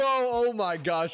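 slow, high drawn-out oh; real awestruck gasp of words; stunned disbelief. Real, not acted. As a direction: stretch it out in amazement. Disbelief after winning.

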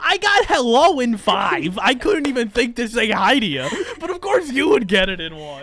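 loud, incredulous griping; loud comic exasperation; exasperated complaint. Real, not acted. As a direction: complain loudly at being outdone. Complains about losing to her.

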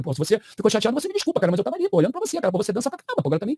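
feigned sincere apology, lightly acted; cynical mock-serious. Storyteller placates offended Gonçalves in the club, cynical mock-seriousness. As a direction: apologise earnestly with cynical insincerity. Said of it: "eu ali cínico, falando sério".

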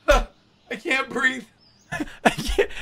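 slow, wheezing through a laughing fit; real laughing fit; breathless laughter. Real, not acted. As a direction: gasp it out while crying with laughter.

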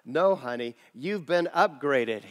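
lightly voiced kindly airline agent; warm smile. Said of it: "said with a warm smile".

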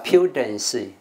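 slow "pudence" starting "pyoo", not "poo"; "pyoo" first syllable. Shown as a demonstration. Teacher correcting the class on "pudence", slow "pyoo". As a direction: stretch "pudence" as "pyoo-dence". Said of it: "那不是打个pu啊".

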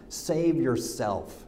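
soft, slow scoffing laugh into the words 'save yourself'; mocking laugh. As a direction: chuckle and drag it out with contempt. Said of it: "hurled insults at him".

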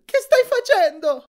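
high, loud frantic demand; alarmed shout. A narrator's reading. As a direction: yell in disbelief. Annabeth alarmed, shrieking.

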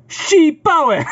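high mocking taunt then laugh; mocking Microsoft voice. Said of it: "tak Microsoft mówi do użytkownika".

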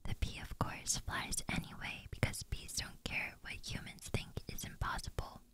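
whispered script reading, no voice at all; ASMR whisper reading. Acted. Reciting the bee movie script in ASMR whisper. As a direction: hush through the whole script like a bedtime secret.

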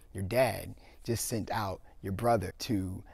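softly letting a son in on a scheme; conspiratorial mother. Acted. Rebecca lets Jacob in on scheme.

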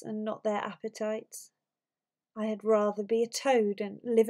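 measured Shakespeare soliloquy, lightly performed; dramatic verse reading. Acted. Teacher reading Othello's soliloquy straight through for students, lightly dramatic verse reading. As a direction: read it as dramatic verse, with deliberate pauses.

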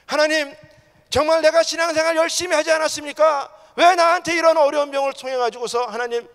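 loud, high-pitched anguished protest; crying out to God. Acted. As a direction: plead with God, demanding to know why. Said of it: "더 소리 질렀다는 거예요". (하나님께 높이 부르짖는 원망)

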